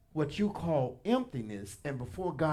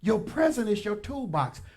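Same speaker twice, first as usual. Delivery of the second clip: higher, louder emphatic repeat; preached louder; 5 semitones higher, 5 dB louder than usual. Real, not acted. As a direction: hammer home "present".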